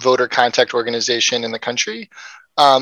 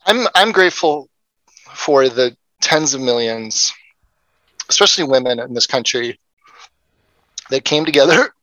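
choked up. Real, not acted. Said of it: "without choking up".

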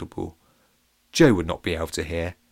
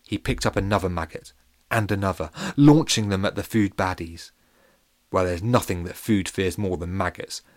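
ordinary delivery, nothing marked

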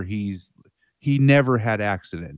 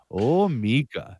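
kitty voice; much slower than usual. Pretend. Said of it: "my voice now is like".

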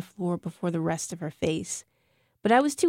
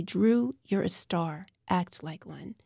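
gentle encouragement; 4 dB quieter, slower than usual. Acted. Remembered teacher's voice.

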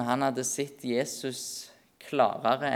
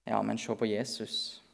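gentle counter; 3 semitones lower, 6 dB quieter than usual. Acted. Answers doubts about faith.

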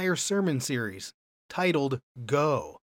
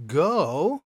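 commanding go; 3 semitones higher, 6 dB louder than usual. Shown as a demonstration. Jesus's command read out.

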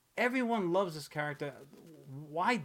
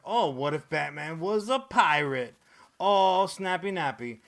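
mock excited executives; 2 semitones higher, 5 dB louder than usual. Mocking quote of comic makers.

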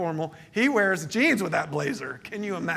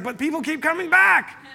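quoting a churchgoer; 9 semitones higher, 4 dB louder than usual. Retold or imitated. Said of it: "And he's like".

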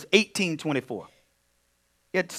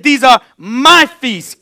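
quoting God; 7 semitones higher, 11 dB louder, much slower than usual. Retold or imitated. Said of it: "He said".

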